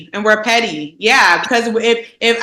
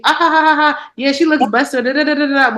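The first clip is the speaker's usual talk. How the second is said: mock giggle; 4 semitones higher than usual. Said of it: "they think it's cute".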